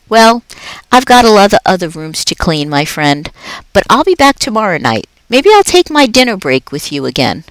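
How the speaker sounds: a jolly night janitor chatting to a pet; upbeat, chatty custodian; Aldo the cheerful janitor. Acted. Aldo saying goodbye.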